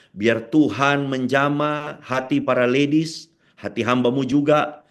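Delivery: earnest, steady prayer voice, speaking to God; closing prayer. Acted. Pastor praying for the ladies at year's end, earnest prayer voice. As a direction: pray it humbly for the whole congregation.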